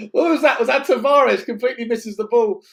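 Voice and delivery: can't believe what just happened; surprised laughing disbelief. Real, not acted. Reacting to a miss.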